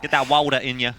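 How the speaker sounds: put-on "water" as "walder" in New York accent. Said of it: "with a New York accent".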